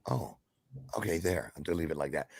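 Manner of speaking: normal talking voice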